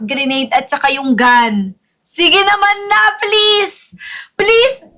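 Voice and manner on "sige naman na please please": raised-pitch, insistent begging; pleading. Real, not acted. Streamer begging for a lucky draw, pleading. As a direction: plead higher on each please. Begging during the live game.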